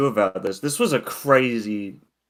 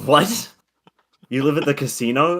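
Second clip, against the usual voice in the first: surprised; 5 semitones higher, 4 dB louder than usual. Retold or imitated. Disbelief at the stranger's answer.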